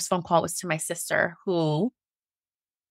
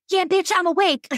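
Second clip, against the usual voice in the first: playful; 12 semitones higher, 3 dB louder than usual. Retold or imitated. Cheeky reply to coworker.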